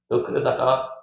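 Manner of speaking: lightly put-on Jeolla warning; Jeolla dialect. Shown as a demonstration. Preacher joking the warning in local talk, Jeolla dialect. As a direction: slip into Jeolla speech, pausing before the last word. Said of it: "전라도 말로는 이렇게".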